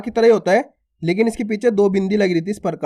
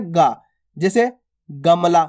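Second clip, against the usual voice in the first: tender slow demo of गा; gentle demo; 3 semitones lower, much slower than usual. Shown as a demonstration. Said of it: "कितने प्यार से उच्चारण हो रहा है".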